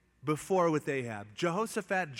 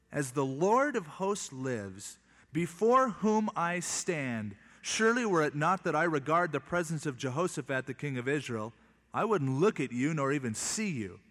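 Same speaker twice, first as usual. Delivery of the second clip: solemn scripture reading. Acted. Elisha's oath read solemnly.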